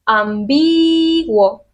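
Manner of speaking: Ambiguo estirado muy despacio, sílaba por sílaba; slow demo word. Shown as a demonstration. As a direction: draw Ambiguo out slowly to show the syllables. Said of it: "Dónde está la fuerza en esta palabra". (Ambiguo muy lento, de demostración)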